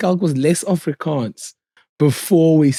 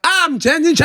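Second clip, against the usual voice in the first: high-pitched mock black South African accent; exaggerated black South African accent for the crowd; put-on black South African accent; 11 semitones higher than usual. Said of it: "I put on a black accent".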